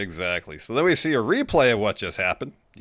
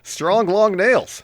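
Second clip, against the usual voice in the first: teasing drawl; 10 semitones higher, 7 dB louder, much slower than usual. Real, not acted. Teasing question, drawn out.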